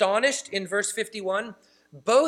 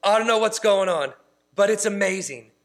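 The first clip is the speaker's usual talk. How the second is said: a touch of bright amazement, a bit louder; amazed wonder; 4 dB louder than usual. Retold or imitated. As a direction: mildly marvel at not knowing. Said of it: "And I can go".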